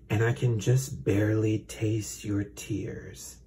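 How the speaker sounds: slow, creepy snake voice, "just" drawn out. Acted. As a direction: savor every word like a sinister serpent. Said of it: "such a creepy".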